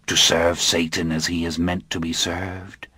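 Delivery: menacing coven leader. Acted. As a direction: pronounce doom on the captive.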